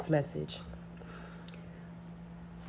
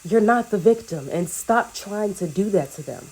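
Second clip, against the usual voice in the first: sassy callout; 4 dB louder than usual. Retold or imitated. Community member scolding the enemy, a mild sassy callout. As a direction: put them in their place with attitude. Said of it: "And it's like".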